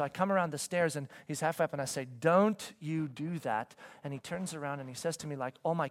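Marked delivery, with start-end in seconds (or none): 2.2-3.8 slow, firm dad warning; slow, measured parental warning. Retold or imitated. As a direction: warn a child firmly, word by word. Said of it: "be a little more firm".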